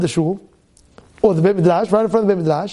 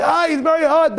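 mock whine; 7 semitones higher than usual. Mock complaint, quoted.

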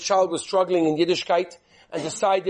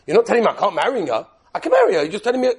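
louder, rising with a laugh; can't believe he got off so easy; relieved, excited; 6 dB louder, faster than usual. Retold or imitated. Son relieved at easy conditions.

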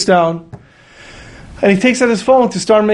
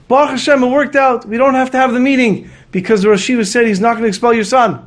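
higher, bursting with good news; excited; 6 semitones higher than usual. Retold or imitated. Rabbi telling the father the good news, excited. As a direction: blurt out the relief.

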